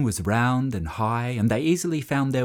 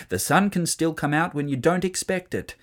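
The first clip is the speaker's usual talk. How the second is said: higher, emphatic parental warning; insistent dad; 7 semitones higher than usual. A narrator's reading. Dad explains the danger to his children, insistent. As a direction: warn the children off firmly.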